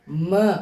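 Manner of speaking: म sounded alone and drawn out from the lips. Shown as a demonstration. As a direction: demonstrate म as a lip sound. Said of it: "ओठ से".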